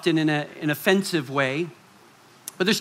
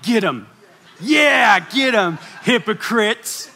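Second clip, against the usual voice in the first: mock cheering; 4 semitones higher, slower than usual. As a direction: egg Jesus on, half laughing. Cheering behind Jesus at Pharisees.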